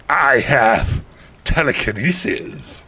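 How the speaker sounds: lightly voiced pompous villain; a hint of mock menace; cruel villain answer. Voldemort answering the heroine, mildly mock-cruel. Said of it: "he answered cruelly".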